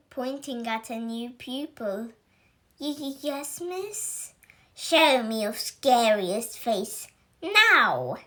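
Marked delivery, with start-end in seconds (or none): 2.8-4.3 nervous stammer. Acted. Nervous pupil answers witch. 4.7-8.2 witch teacher barks, rising to a loud now; a demanding witch who wants fear; stern command. Acted. Witch teacher ordering the scared werewolf pupil, stern and loud. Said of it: "snarled Miss Bell".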